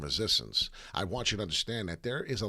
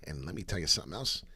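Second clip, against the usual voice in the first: ordinary talk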